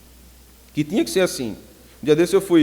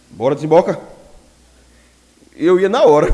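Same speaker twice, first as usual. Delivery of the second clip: um menino obedecendo alto e na hora; resposta alta; 7 dB louder than usual. Retold or imitated. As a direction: fala mais alta, de menino apressado. (menino respondendo alto à mãe)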